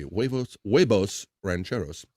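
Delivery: mild Spanish accent. Shown as a demonstration. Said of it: "let me say this with a proper accent".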